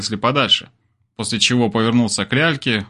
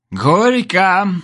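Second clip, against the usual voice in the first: put-on drunken shout; 8 semitones higher than usual. A narrator's reading. Drunk Zhaba shouting a wedding cheer at the couple. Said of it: "закричал пьяный жаба".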